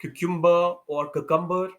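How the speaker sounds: Cucumber as kuh-KUM-ber and koo-kum-ber; wrong cucumbers. Shown as a demonstration. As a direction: common cucumber mistakes. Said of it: "ये सब गलत है".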